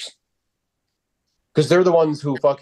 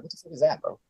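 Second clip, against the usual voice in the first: ordinary delivery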